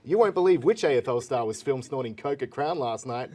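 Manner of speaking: breathless hype headline voice; clickbait video narrator. Acted. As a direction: sell each headline like a clickbait ad. Reading clickbait headlines aloud.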